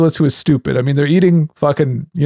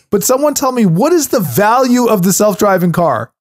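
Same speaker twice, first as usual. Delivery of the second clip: high-pitched, exasperated demand; fired up; 5 semitones higher than usual. Real, not acted. Co-host questioning the value of self-driving cars, fired up. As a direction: press for an answer, all worked up. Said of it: "I'm sorry I'm so fired up on this".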